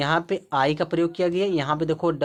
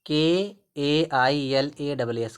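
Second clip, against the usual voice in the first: slow letter-by-letter spelling; much slower than usual. Shown as a demonstration. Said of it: "कैलाश में देखो".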